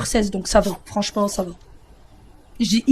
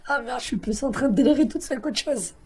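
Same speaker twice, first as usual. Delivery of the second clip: fou rire; 8 dB quieter than usual. Real, not acted.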